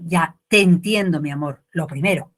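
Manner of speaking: put-on calm the child down gently; tender mother.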